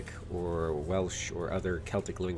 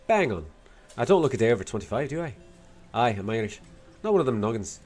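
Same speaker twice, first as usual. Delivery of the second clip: put-on Irish accent with a Scottish lilt; attempted Dublin accent. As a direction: do a not-very-good Dubliner. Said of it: "Scottish lilt out of the attempt at an Irish accent".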